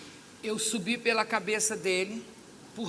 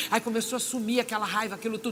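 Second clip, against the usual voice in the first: ordinary talk, nothing marked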